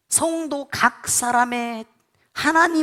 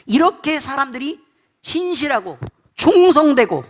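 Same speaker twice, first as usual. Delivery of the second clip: loud, impassioned sermon peak, louder; fervent preaching; 3 semitones higher, 5 dB louder than usual. Real, not acted. Preacher rousing the congregation, impassioned and louder. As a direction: pour real zeal into it despite being ill. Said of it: "열광을 하고 있나 봐요".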